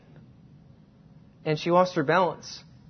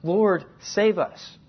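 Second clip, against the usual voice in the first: pleading cry; 3 semitones higher, 6 dB louder, much slower than usual. Retold or imitated. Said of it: "They're screaming".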